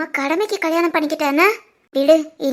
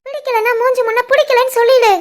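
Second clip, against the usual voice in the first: tearful accusation; 2 semitones higher than usual. Acted. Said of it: "அழுகைய மொத நிப்பாட்டு".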